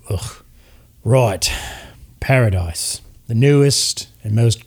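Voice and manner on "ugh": disgusted groan. Acted. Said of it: "you hear Vernon go".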